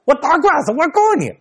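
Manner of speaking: put-on an old man at his gate threatening a lawsuit, furious. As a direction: spit out the threats. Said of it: "这老头在这骂街".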